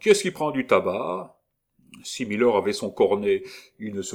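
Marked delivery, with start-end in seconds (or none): 0.0-1.4 loud call. Acted. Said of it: "ajouta Militaire".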